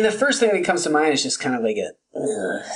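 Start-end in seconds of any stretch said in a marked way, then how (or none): 2.2-2.6 low, soft groan of disgust; a groan on request, low and soft; disgusted ugh. Pretend. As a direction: groan at a bad play. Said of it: "make a noise to sum up".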